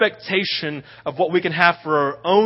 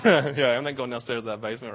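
put-on child's fear; 6 semitones lower, 6 dB quieter, faster than usual. Scared child refusing basement.

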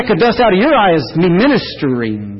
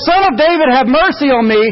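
high plea; crying out; 6 semitones higher than usual. Retold or imitated. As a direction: call out again over the noise. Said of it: "And it's like".

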